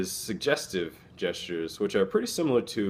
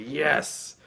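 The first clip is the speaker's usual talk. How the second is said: high, punchy cry of triumph; excited yes; 9 semitones higher, 3 dB louder than usual. Shown as a demonstration. Student who aced a test cheers a triumphant yes. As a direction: celebrate like you just aced it.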